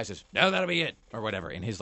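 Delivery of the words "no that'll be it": mock New Zealand accent, louder and higher. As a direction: imitate a New Zealander, pitched up. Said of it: "like, New Zealand voice".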